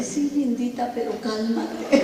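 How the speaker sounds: bajito, imitando a la amiga que calma; imitando apaciguamiento. Retold or imitated. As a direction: calma a alguien discretamente, alargando el final. Marta la jala para calmarla. (regaño suave y bajito, imitado)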